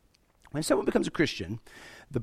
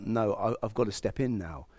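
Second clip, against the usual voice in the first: lower, softer, reluctant decision; reluctant resolve; 5 semitones lower, 6 dB quieter than usual. Acted. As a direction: quietly voice God deciding he must intervene. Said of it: "where God felt".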